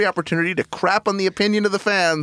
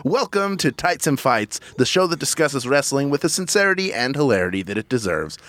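big ringmaster show intro. Acted. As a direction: announce it like a circus ringmaster. Opens the show like announcer.

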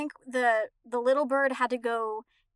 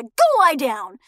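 parrot voice; 7 dB louder, much slower than usual. Retold or imitated. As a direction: parrot squawking a stern command. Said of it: "he'll say".

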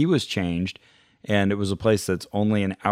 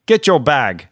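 barked order, louder and a touch higher; mock yelled command; 5 semitones higher, 7 dB louder than usual. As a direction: shout the order like a drill sergeant. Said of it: "he yells commands at him".

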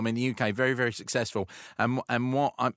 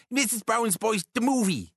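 high, chirpy mock-Irish; Irish accent; 9 semitones higher than usual. Shown as a demonstration. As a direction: put on a jolly Irish accent, pitched well up. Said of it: "it's using the Irish accent".

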